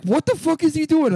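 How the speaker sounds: high-pitched mock outrage; alarmed aunt. Aunt reacting to boy with plastic screwdriver, high appalled mock cry.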